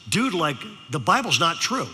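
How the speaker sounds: lightly imitated Valley dude; Valley teenager. Sophomore challenges the preacher, mock Valley-teen talk. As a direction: say it like a laid-back Valley kid. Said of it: "You ever met a teenager talk like this".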